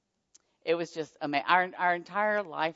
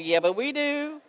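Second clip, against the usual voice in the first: excited reply; 10 semitones higher than usual. Retold or imitated. Answering puzzled donor again.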